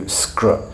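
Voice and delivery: "skr" run together as a single cluster; "skr" said in one go; one consonant cluster. Shown as a demonstration. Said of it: "into one consonant cluster".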